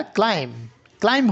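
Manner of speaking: ক্লাইম ending on m, "klaim"; silent b. Shown as a demonstration. Teacher shows students the silent letter, ক্লাইম ending on m. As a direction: close ক্লাইম on m with no b. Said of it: "এটা বিটা উচ্চারণ হবে না".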